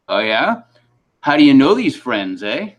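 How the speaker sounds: imitated Canadian customs officer questioning; Canadian accent. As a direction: put on a probing Canadian accent. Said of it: "first I gotta do the accent".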